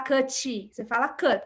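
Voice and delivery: "cut" com o T mudo nos dentes de cima; "cut" com o T morrendo. Shown as a demonstration. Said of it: "com o T morrendo". ("cut" com o T final retraído e quase mudo)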